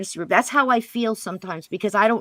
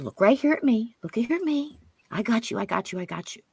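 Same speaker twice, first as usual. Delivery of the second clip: calm her down, letting the voice sink away; reassuring, fading; 3 semitones higher than usual. Retold or imitated. Calming the scared girl.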